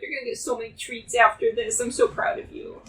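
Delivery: praising a dog. Real, not acted.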